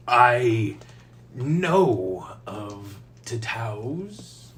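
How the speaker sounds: slow, prim and proper gentleman. Acted. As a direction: speak it primly, very properly. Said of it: "like, prim proper voice that he can do".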